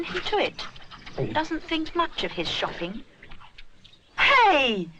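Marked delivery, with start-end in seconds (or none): 4.2-4.9 loud sudden call to stop; shout. A narrator's reading. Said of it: "shouts Rupert".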